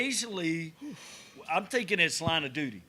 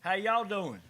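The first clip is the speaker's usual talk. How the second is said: imitated Oklahoma accent; 4 semitones higher than usual. Imitating the Oklahoma phone agent, friendly Oklahoma accent. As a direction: greet them with an Oklahoma accent. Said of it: "That little accent to her".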